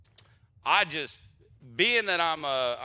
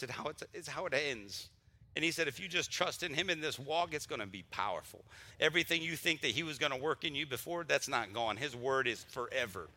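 getting emotional; 2 semitones lower, 5 dB quieter than usual. Real, not acted. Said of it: "look, I'm getting emotional already".

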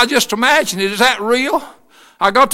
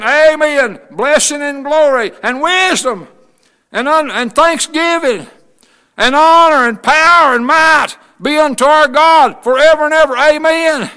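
heavenly praise; 3 semitones higher, 3 dB louder than usual. Acted. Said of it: "Listen what they said".

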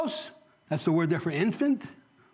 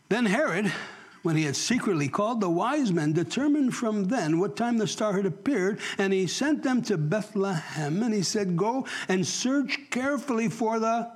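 measured, emphatic Bible reading; deliberate pulpit reading, slowing at the end; scripture reading; 3 semitones higher than usual. Real, not acted. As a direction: read it out phrase by phrase. Reads scripture aloud to congregation.

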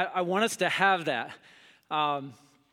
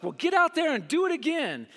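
mom's firm advice; 10 semitones higher than usual. Retold or imitated. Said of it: "She's like".

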